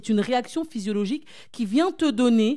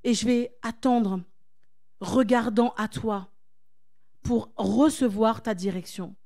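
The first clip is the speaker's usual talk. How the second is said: calm surrender; 3 dB quieter than usual. Pretend. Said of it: "tu dises".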